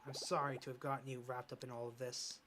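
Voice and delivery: soft, broken apology; quiet remorse. Acted. Father apologizes softly to Ashley, quiet remorse. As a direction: whisper your regret to your daughter.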